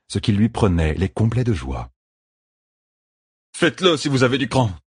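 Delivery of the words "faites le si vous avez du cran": growl. A narrator's reading. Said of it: "grogna Matt".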